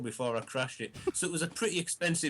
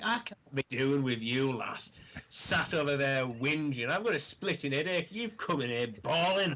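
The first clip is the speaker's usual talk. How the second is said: retold exasperated scolding. Retold scolding of crying girlfriend.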